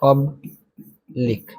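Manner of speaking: soft, very slow पब्लिक with a long gap mid-word; पब्लिक slowly broken in two; syllable by syllable. Shown as a demonstration. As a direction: say पब्लिक quietly in two separated parts. Teacher splits word while writing it.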